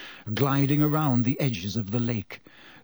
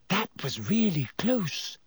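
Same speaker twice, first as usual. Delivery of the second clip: just escaped, still rattled; breathless Hermione; 7 semitones higher than usual. A narrator's reading. Hermione relieved after running.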